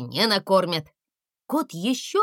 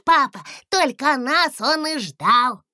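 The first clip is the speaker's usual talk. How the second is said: excited; 6 semitones higher, 5 dB louder than usual. A narrator's reading. Дракончик радостно кричит папе.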